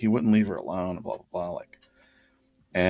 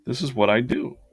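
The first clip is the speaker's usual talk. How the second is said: a bit higher and brighter, lightly voiced young woman; lightly voiced girl; 5 semitones higher, 3 dB louder than usual. Receptionist telling his ex-wife about derby, lightly higher. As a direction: lift the voice a little for the chatty girl.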